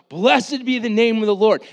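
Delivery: loud and high, blessed hit hard; crowd shouting praise. Retold or imitated. Preacher voicing the cheering crowd, loud and high. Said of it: "they start yelling out".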